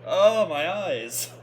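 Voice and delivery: slow, loud groan of words; hammed-up pained cry; mock pain. Viewer joking about a bright flash, hammed-up.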